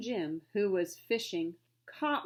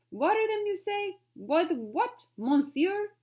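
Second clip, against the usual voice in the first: much higher, louder disbelief; incredulous; 11 semitones higher, 7 dB louder, slower than usual. Acted. Frenchman scoffing at the butler's advice, high disbelief. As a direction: toss the words back in disbelief.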